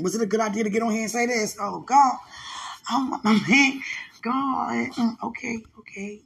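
high, loud, gushing excitement; giddy excited gush. Real, not acted. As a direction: blurt it out, overjoyed. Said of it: "I just got very excited".

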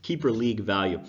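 rough, scratchy sore-throat voice; hoarse voice. Real, not acted. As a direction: talk through a raw hoarse throat. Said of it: "Got a very rough throat right now".

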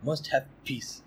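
lightly voiced calm holy man, quiet; Dalai Lama impression. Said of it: "working on my Dalai Lama impressions".

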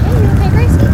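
imitating mom. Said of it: "my mom was like".

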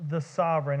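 "the" leaned on, set apart before "sovereign"; stress on THE. Shown as a demonstration. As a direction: hit the word "the" in "the sovereign". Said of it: "I want to emphasize the word "the".

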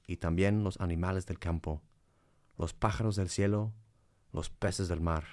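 solemn, reverent psalm reading. Acted. Reads a psalm.

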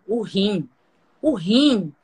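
imitating dad's rising shout; father shouting, building. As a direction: let it grow into a retold yell. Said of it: "ele gritava".

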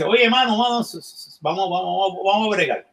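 hammed-up Al Pacino devil. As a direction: coax him like a slick devil. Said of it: "Al Pacino y dice".

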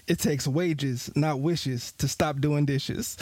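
slow, deliberate fatherly maxim; slow dad saying. Retold or imitated. Dad lecturing son at dinner, slow and deliberate. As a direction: lay it out slowly like a wise dad. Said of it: "And he says".

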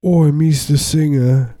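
slow, high cartoon Cockney; exaggerated English accent; mock English accent. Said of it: "why they have English accents".

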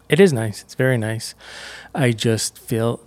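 catching breath while talking; breathless after running to the room. Real, not acted. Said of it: "sorry, I'm catching my breath".

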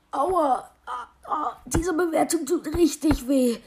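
whimpering in hurt; pained whimper. Acted. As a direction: whine that it hurts. Hurt by a bad review.

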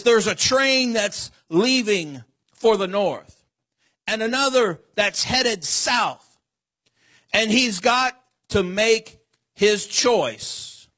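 put-on lightly recited old cowboy poem; a slow, measured cowboy-poem recital; cowboy poetry. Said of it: "There's an old poem".

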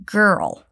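put-on girl with a full r-colored vowel; model pronunciation. Shown as a demonstration. Teacher modelling girl for learners. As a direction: draw out the girl vowel, r all through. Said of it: "Pay close attention to the pronunciation of girl".

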